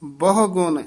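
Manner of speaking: ਬਹੁ ਗੁਣ joined as one unit; linked phrase. Shown as a demonstration. Teacher explains linked words, ਬਹੁ ਗੁਣ said together. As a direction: link ਬਹੁ straight into ਗੁਣ. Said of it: "ਇਹ ਸੰਬੰਧਕ ਪਾਠ ਹੈ".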